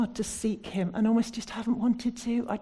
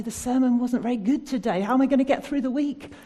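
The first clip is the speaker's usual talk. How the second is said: louder, higher whiny grumble; mock complaint; 5 semitones higher, 6 dB louder than usual. Preacher mimicking a churchgoer who disliked the sermon, mock whine. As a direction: imitate a disappointed churchgoer. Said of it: "Otherwise, we'll say".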